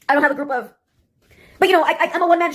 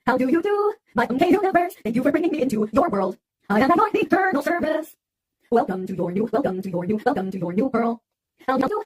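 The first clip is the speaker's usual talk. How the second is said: genie greeter voice; 4 dB quieter than usual. Acted. Repeated genie greeting routine.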